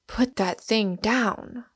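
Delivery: each word spaced, a lightly voiced command; shouted. Warden to Smith again, slow understated shout at the gun. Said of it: "shouted the warden".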